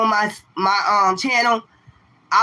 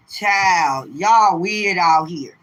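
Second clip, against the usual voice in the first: drawn-out; 3 semitones lower, much slower than usual. Real, not acted. Drawn-out remark to viewers.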